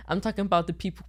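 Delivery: out of breath; short of breath mid sentence; breath catch. Real, not acted. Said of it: "sorry, I'm, lost my breath".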